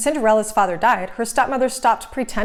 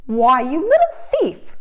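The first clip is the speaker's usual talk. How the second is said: louder, slow spiteful accusation; accusing cry; 5 semitones higher, 4 dB louder, slower than usual. A narrator's reading. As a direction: stepsister snatching back her beads. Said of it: "Drizella cried".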